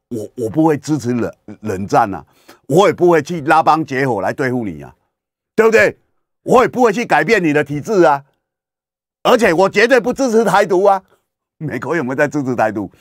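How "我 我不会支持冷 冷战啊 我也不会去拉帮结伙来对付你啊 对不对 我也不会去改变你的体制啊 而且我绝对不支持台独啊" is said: quoting Biden. Retold or imitated. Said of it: "他跟习近平讲".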